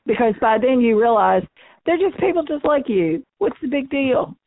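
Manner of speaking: numb mouth and nose; talking with a numb face. Real, not acted. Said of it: "I'm sorry if I sound funny, but my nose and my face are numb".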